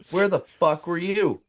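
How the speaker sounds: insistent mock challenge. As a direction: press the bluff harder.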